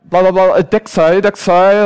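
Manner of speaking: mimicked insistent foreign babble; mock urgent jabbering; imitating urgent gibberish. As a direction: repeat it insistently, as the guard. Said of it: "and she's just like".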